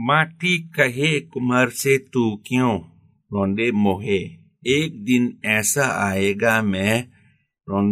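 slow, measured poem recital in Hindi; reciting a Hindi couplet. Shown as a demonstration. Scholar recites Kabir's couplet for the host, slowly. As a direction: draw out each word of the verse like a chant. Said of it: "อาจารย์ช่วยยกตัวอย่างสักนิดๆหน่อยๆ".

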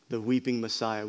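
a hushed echo of the title. Shown as a demonstration. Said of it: "I've titled the message".

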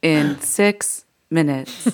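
slow automated arrival announcer; Muni announcement voice. Acted. Comic finishing the Prague train gag in Muni announcement voice. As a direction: space out each word evenly. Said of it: "you could do Muni A S M R".

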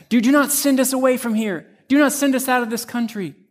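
a touch of desperate begging; mock pleading. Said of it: "plead with Jesus".

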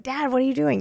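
mock-indignant, voice jumping up high; lightly acted, high-pitched protest to Dad; indignant teen daughter. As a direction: imitate a daughter catching Dad out. Teen catches dad snooping, retold.

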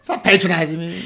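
whiny protest. Retold or imitated. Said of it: "yelling at him".

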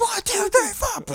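band count-in. Retold or imitated. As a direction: count the band in like a cartoon drummer. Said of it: "from Scott".

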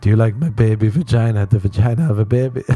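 aghast mock repetition; incredulous repeat. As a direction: throw her words back in horror. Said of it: "don't say what you're saying".

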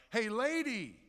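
loud, high call on "Hey, lady"; high parrot yell, then a drop for the insult. Acted. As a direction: heckle a passerby like a parrot. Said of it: "the parrot yelled out".

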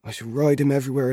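put-on boy bragging about his horse; eager boast. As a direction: rush it out with excitement. Albert vows to ride.

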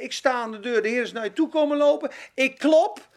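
ordinary talk, nothing marked

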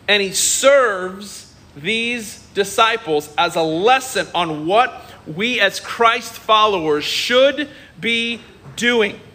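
ordinary delivery

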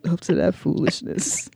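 soft, half-whispered tut behind the blinds; neighbor tutting. Retold or imitated. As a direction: shake your head and murmur disapproval. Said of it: "shaking my head like".

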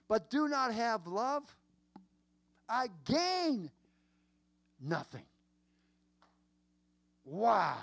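high-pitched, emphatic scripture preaching; impassioned preaching. Real, not acted. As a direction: preach it high, with long pauses before key words.

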